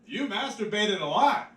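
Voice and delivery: slow, high scoffing drawl; a slow, high, dismissive sneer; unimpressed relatives. Retold or imitated. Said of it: "they're like".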